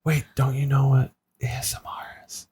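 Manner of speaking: laughing whisper. Real, not acted. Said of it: "Why are we whispering".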